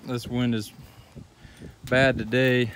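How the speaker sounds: talking into strong wind; windy outdoor recording; wind in the face. Real, not acted. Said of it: "I'm really sorry about the wind".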